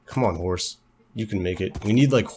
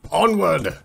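high rallying cry; mock-heroic call; 8 semitones higher, 4 dB louder than usual. Rider urges the horse on, mock-heroic cry. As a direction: call it out like leading a charge.

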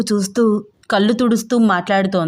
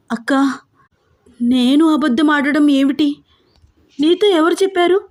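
higher, a touch of flustered tears; fumbling for words, caught out; stammering tearfully; 7 semitones higher than usual. Acted. Younger sister caught in a lie, mildly stammering. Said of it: "తడబడుతూ వస్తున్న కన్నీళ్లు".

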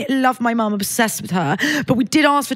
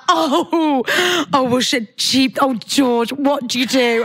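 imitating her mum; 2 semitones higher, slower than usual. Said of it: "exactly how her mum speaks".

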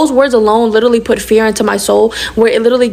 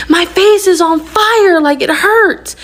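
high, drawn-out mock wail; retold scream; 8 semitones higher, much slower than usual. Daughter to mom in pain, mock screamed complaint. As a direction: imitate a pained yell without real volume. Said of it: "I screamed at my mom".

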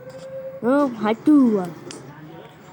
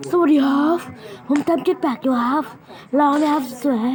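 overly polite put-on character voice; sweet, polite little inventor voice; put-on Apple voice; 2 semitones higher than usual. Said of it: "เลิกทำเสียงงั้นได้ไหม". (เสียงดัดสุภาพของแอปเปิ้ล)

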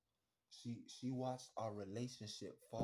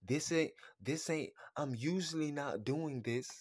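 loud mock excuse; 5 dB louder than usual. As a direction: throw her fake innocence back loudly. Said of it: "When you say".

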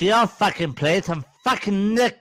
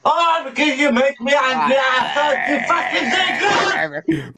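getting angry; 3 semitones higher than usual. Real, not acted. Answering a heckler who asks about the temper, angry. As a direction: throw the blame back angrily. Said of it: "Why are you getting angry for".

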